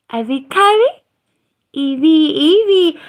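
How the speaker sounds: high, loud call with a laugh. Real, not acted. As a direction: call Evie across the room, laughing. Calling the pet, laughing.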